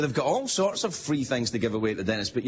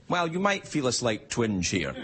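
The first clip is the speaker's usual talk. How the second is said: reassuring dentist; 4 semitones lower than usual. Retold or imitated. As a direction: play down the pain gently. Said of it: "They say".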